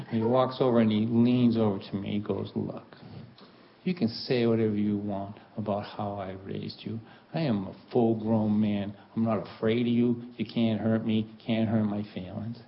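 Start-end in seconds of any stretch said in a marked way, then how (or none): 2.5-12.6 low, restrained father impression; lightly voiced dad, lower and measured; dad laying down the law. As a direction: lean in and state it with quiet finality. Dad leans in to finish him off.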